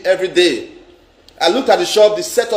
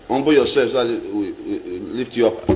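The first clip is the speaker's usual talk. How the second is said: mock pious preacher; 9 semitones lower, 5 dB quieter than usual.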